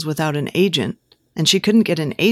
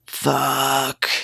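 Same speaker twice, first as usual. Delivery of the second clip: pleasured; 4 semitones lower than usual. A narrator's reading. Character reacts with pleasure.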